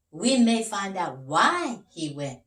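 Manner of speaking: proud detective pointing out the tracks; eager detective Big Max. Acted.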